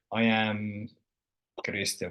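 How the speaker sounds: usual speaking voice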